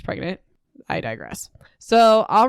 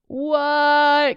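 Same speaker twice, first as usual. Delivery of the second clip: shocked what; 8 semitones higher than usual. Real, not acted. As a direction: gasp it out in disbelief. Shocked by the book twist.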